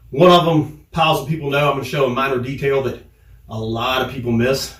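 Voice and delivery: winded, catching breath between phrases; out of breath after sparring rounds. Real, not acted. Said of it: "excuse me for being out of breath".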